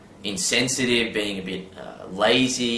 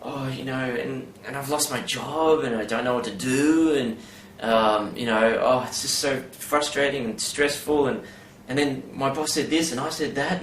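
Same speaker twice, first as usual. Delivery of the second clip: softer, hammed-up self-pitying whine; mock whining; 2 semitones higher, 4 dB quieter than usual. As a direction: whinge like a sorry little boy. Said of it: "He's not gonna be like".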